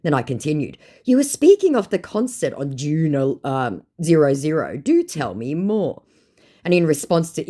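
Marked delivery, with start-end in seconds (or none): 1.0-6.0 prim mock formal. Reading her own message, mock formal.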